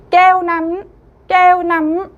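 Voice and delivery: 깨우남 with 깨우 high and loud; stress on 깨우. Shown as a demonstration. Teacher reading the word list aloud, stressing 깨우. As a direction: lift and punch 깨우, let 남 fall away. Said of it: "배운 단어 다시 한번 읽어보겠습니다".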